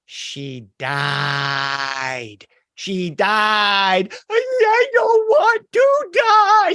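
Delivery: high, wailing cry that rises to a sob; a little kid panicking and near tears; frightened child. Retold or imitated. Child telling her mother she doesn't want to die, crying in fear. Scared child hears of drowning.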